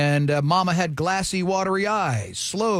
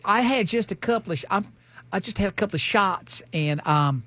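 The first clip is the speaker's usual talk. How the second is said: put-on Southern accent. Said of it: "What's that accent?".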